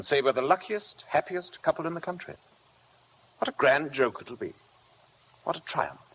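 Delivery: husband imitating his wife's mocking boast; mocking Rebecca. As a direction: sneer her bargain, climbing into gloating triumph. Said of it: "she said".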